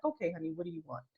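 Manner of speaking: put-on soft, quick, loving coo to a fussing baby; tender to a baby. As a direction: hush it down like soothing an infant. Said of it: "you just love that baby so much".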